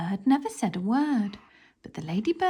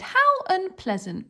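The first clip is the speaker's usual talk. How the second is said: a much higher, mildly huffy cry; indignant pets; 10 semitones higher than usual. Acted. The pets reacting to the thieves' plan, mildly indignant. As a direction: sound mildly scandalised. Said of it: "And all the pets said".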